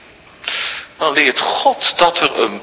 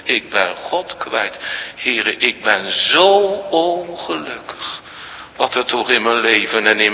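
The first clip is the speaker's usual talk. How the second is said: slow, soft, lower lament; sorrowful prayer; 5 semitones lower, 4 dB quieter than usual. Pretend. Preacher voices a sorrowing soul praying, slow and soft. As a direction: pray quietly in grief.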